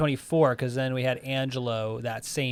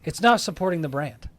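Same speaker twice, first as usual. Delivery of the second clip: higher, firm statement ending in a fall; mock indignant verdict; 4 semitones higher, 3 dB louder than usual. Maker wants to drop Hermes, mock indignant verdict. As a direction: state it as a final judgement. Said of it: "he's just like".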